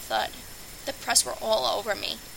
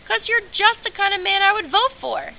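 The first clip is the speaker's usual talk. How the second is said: put-on higher, louder old woman's voice; 10 semitones higher, 4 dB louder than usual. Elderly June Sires telling Moon she'd vote for him, in a high old-lady voice.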